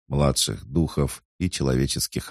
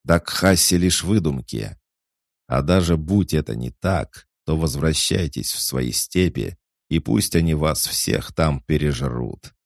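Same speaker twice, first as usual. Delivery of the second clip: loud, higher scornful yell; angry shouting; 4 semitones higher, 4 dB louder than usual. Acted. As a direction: spit the words out in contempt. Officer keeps shouting at orcs.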